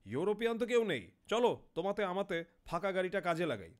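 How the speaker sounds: loud, high-pitched bark back; harsh, blaring retort. Acted. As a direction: blare it out roughly. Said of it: "খুব কর্কশভাবে বললাম".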